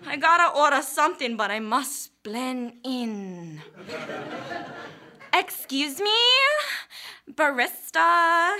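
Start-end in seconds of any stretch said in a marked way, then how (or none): 5.3-8.6 snooty customer. Acted. Ordering from barista, mock snooty customer.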